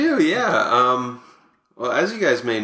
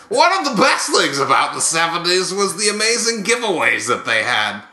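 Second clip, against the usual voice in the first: Buck Martinez. Acted. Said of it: "here to present these is Buck Martinez".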